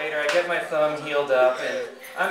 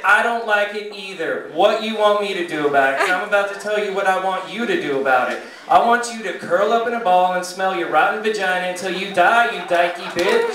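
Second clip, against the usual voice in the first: angry comeback; 3 semitones higher, 4 dB louder than usual. Acted. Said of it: "And I said".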